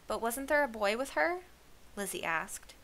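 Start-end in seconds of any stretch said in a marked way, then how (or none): 0.1-1.4 higher, louder, rising question; eager questioning. A narrator's reading. Lizzie asking after a missing boy, eager. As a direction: press eagerly for news.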